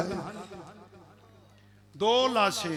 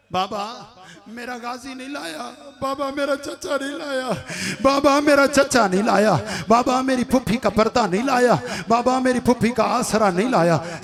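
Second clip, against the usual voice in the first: put-on grieving little girl; 2 semitones higher than usual. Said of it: "चार साल की बेटी".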